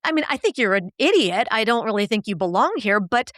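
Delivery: sweeten the insult with a breezy no offense; fake-nice insult. Coach to Parker, insulting him in a falsely nice tone. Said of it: "but if I say".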